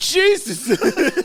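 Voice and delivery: put-on very high, loud yell. Retelling a friend yelling at his cat during a game: imitating someone yelling. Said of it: "Yelling at his cat".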